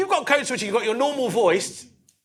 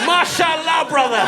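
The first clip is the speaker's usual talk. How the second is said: delighted exclamation; 11 semitones higher, 7 dB louder, slower than usual. Retold or imitated. Delighted reply to cocaine offer.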